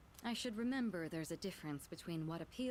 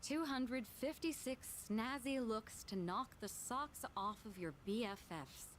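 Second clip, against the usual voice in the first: put-on Valley Girl voice; 4 semitones higher, slower than usual. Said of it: "only makes sense if you say it in a Valley Girl voice".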